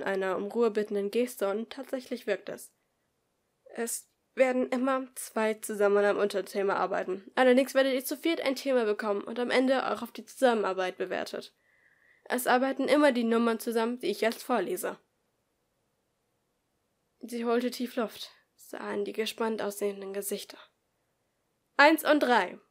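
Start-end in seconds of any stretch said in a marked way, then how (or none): 3.6-15.0 louder classroom instructions; teacher explaining. Acted. Teacher explains group work to the class, louder. 21.8-22.6 loud, higher announcement; calling out. Acted. Teacher reads out the group numbers, loud.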